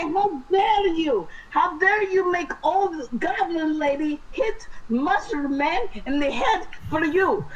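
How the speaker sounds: indignant. Acted. Player's character scolds the goblin, high and indignant. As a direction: scold the monster for hurting a friend. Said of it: "I say".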